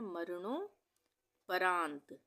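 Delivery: drawn out slowly, each syllable clear; slow, careful dictation. Shown as a demonstration. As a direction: spell it out slowly for a child. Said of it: "इसको हम दो भागों में विभाजित करके पढ़ सकते हैं".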